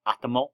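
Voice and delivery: "atomo" with no final s, opening on an open "ah"; pronunciation variant "atomo". Shown as a demonstration. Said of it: "I've heard it pronounced".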